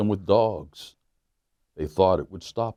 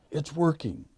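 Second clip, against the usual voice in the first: wife's voice; 9 semitones higher, 6 dB quieter than usual. A narrator's reading. Wife voiced in retold story.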